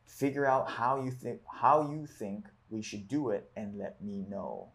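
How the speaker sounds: measured, emphatic read-aloud voice. Acted. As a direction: read the book passage out clearly, leaning on key words. Reads book passage aloud.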